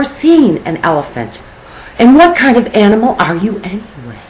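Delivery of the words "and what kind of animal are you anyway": high, loud parrot voice. Acted. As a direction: play the cheeky parrot.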